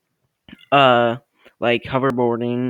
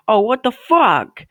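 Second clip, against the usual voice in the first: high-pitched retold disbelief; shocked outburst; 7 semitones higher, 4 dB louder than usual. Storyteller replays seeing gasoline poured at front door, high shocked outburst. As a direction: voice leaps up in appalled alarm.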